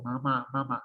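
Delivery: "mamá" repeated, air coming out through the nose; nasal-resonant demo of "mamá"; nasalized vowels. Shown as a demonstration. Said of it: "sale completamente por la cavidad nasal".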